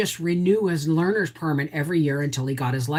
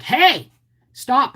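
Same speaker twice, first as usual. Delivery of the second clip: mock shout; 8 semitones higher, 5 dB louder than usual. Mother shouting at son in car.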